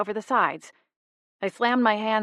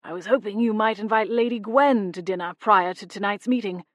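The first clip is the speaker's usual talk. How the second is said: nervous gentleman. A narrator's reading. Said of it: "passed it nervously".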